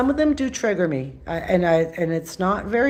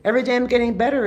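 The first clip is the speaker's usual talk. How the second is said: upbeat affirmation; 4 semitones higher, much faster than usual. Shown as a demonstration. Coaching viewers, the upbeat good choice. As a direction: sell the better choice. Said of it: "Two choices".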